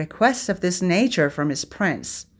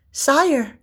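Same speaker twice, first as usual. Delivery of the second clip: a high, relieved breath of a word; gasp of relief; 8 semitones higher, 3 dB louder than usual. A narrator's reading. Merlin greeting his late prince, high with relief. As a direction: let the worry go as you say it. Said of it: "with a gasp of relief".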